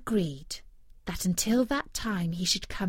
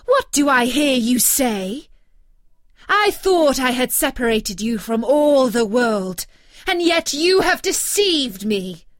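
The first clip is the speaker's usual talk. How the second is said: loud, raised witch's rebuke; angry scolding; 3 semitones higher, 9 dB louder than usual. Acted. Enchantress rebuking deceitful Rapunzel, loud angry witch voice. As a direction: rail at the girl who betrayed you. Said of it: "cried the enchantress".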